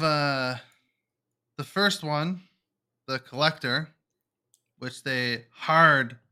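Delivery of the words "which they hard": slow, dry sarcastic drawl. Real, not acted. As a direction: say it with heavy sarcasm. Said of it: "I don't know if you can tell the sarcasm in my voice".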